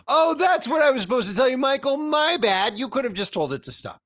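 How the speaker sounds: breezy "my bad" sung lightly; singsong mock apology. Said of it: "Or you could have just told it to stop".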